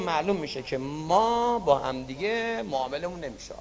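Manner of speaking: quiet resignation. Acted. God gives up.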